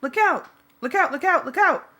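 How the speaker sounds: loud high repeated warning shout; panicked yell from the passenger seat. A narrator's reading. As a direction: shout it to stop a crash. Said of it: "Jake yelled".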